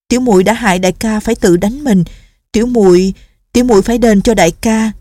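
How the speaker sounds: rushing to make amends; anxious young nun. Acted. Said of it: "Cô sốt ruột nói". (giọng cô gái sốt ruột, hơi cao)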